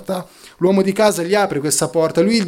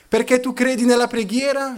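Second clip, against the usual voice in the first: domanda più acuta, lievemente incredula; scettico derisorio; 5 semitones higher than usual. Retold or imitated. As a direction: imita appena uno scettico che deride. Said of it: "Gli fece una grassa risata". (tono lievemente scettico e derisorio)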